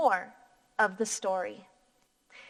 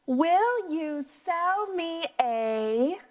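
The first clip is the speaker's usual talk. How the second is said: slow, rising question voice; rising question tune; 4 semitones higher, much slower than usual. Shown as a demonstration. Teacher modelling a question for the class, slow rising tune. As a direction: turn the voice up at the end. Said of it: "Practice reading this part with me".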